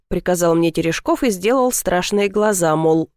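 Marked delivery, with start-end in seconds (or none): none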